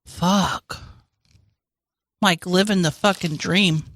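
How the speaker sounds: talking through a mouthful; chewing while talking. Real, not acted. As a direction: speak while chewing food. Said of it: "We can't talk 'cause we're eating".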